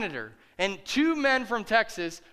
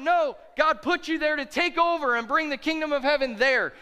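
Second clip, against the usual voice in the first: preaching shout; 5 semitones higher than usual. Real, not acted. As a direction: call it out to the whole church. Pastor preaching at full force.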